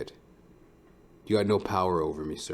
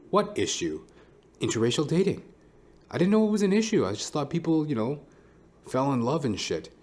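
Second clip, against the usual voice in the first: mock naive voice; 7 semitones higher than usual. Mock naive answer to issue.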